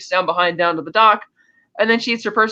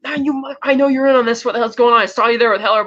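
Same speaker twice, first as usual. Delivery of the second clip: angry Bond; 4 semitones higher, faster than usual. Retold or imitated. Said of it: "He's, like, really pissed off".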